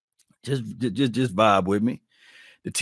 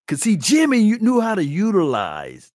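excited high call-out; 10 semitones higher, 4 dB louder than usual. Shown as a demonstration. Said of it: "now I'm gonna have you guys talking like this".

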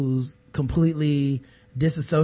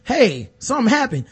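mock hyped rioters; 8 semitones higher, 5 dB louder than usual. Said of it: "it didn't just start from".

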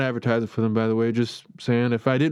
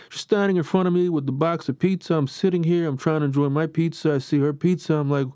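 a lightly put-on New York accent, slightly raised; a mock New York accent, barely there; bad New York accent. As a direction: rant like a fed-up New Yorker in a half-hearted New York accent. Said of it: "I'm gonna do my New York thing".

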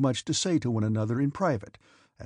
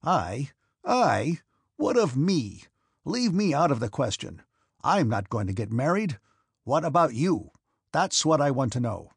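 irritated; 3 dB louder than usual. A narrator's reading. Irritated father rebuffs daughter.

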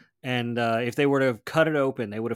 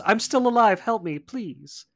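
mock desperate plea; 8 semitones higher, 4 dB louder than usual. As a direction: imitate a hammed-up cry for help. Acting out the coughed-up victim's plea.

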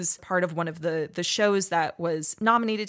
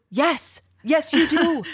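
emphatic yes; 8 semitones higher, 5 dB louder, slower than usual. Retold or imitated. Boyfriend's emphatic urging, retold.

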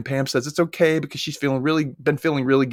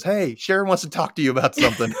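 raised-pitch acted hail; calling out; 4 semitones higher than usual. Rayanne calls out to Kyle to shed Sharon, acted call. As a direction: call over to someone, lightly mimicked. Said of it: "Rayanne calls out to Kyle".

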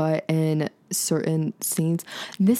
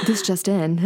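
a laughing mock news-anchor intro; mock NPR anchor line, cracking up; laughing radio anchor. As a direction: announce it like a radio host, giggling through. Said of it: "my N P R voice".

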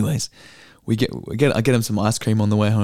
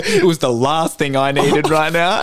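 put-on slow, lightly higher dramatic teen line; mock teen drama; 5 semitones higher, 4 dB louder, slower than usual. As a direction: savour her overdramatic wording. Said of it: "just the wording".

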